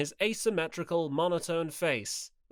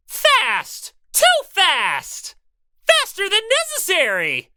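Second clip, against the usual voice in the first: bellowing; 11 dB louder, slower than usual. Acted. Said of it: "Because of Monokuma's bellowing".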